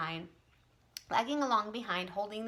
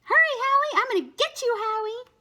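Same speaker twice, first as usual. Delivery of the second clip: calling out; 10 dB louder than usual. A narrator's reading. Child calling out to friend.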